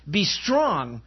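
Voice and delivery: slow quoted command. Retold or imitated. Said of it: "He says".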